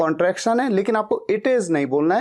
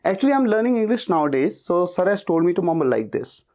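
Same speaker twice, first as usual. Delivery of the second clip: rattled off smoothly without breaks; practised, continuous delivery; fluent demo speed; much slower than usual. Shown as a demonstration. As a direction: run it together as one memorised line. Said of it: "इसी speed में उसे बोल दो".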